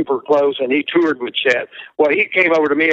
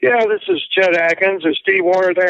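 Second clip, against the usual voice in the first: lightly voiced caller, pitched higher; a hint of a polite phone caller, raised pitch; Chet Atkins; 5 semitones higher than usual. Famous producer phoning a young musician at his parents', lightly imitated. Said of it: "Chet calls me at my mom and dad's".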